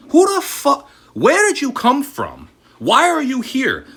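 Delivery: high, loud angry shouting; furious yell. Real, not acted. Ranting at the XRP influencer, furious yell. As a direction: scream it at the screen in outrage.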